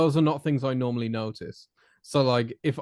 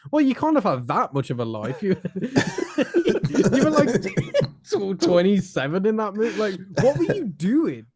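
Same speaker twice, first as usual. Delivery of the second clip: giggling, higher and breaking up; laughing through a quote; 8 semitones higher than usual. Retold or imitated. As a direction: laugh while mocking him. Mock retort, laughing through it.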